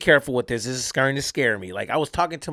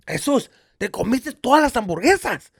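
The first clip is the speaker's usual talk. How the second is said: higher, mock-indignant questioning; acted accusation; 6 semitones higher than usual. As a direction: call the culprit out, pitched up. Relative accusing him, retold.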